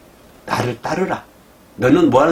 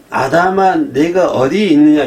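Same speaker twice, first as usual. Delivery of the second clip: God calling out; 6 dB louder than usual. Acted. Preacher voicing God calling Adam.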